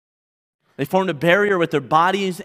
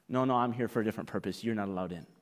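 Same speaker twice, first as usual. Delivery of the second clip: cold dismissal; 6 semitones lower, 10 dB quieter, much faster than usual. Acted. Dismissive Pharisee, quiet first take.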